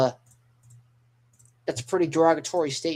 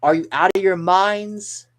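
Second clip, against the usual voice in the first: raised, louder mock-outraged yell; high, loud acted scolding; scolding scream; 5 semitones higher, 6 dB louder than usual. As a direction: scream it like you're telling them off. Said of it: "Nami's screaming, uh, I guess scold-, scolding him".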